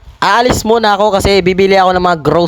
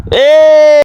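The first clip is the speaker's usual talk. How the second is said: excited squeal; 7 semitones higher, 6 dB louder than usual. Acted. Shrek agrees to be friends.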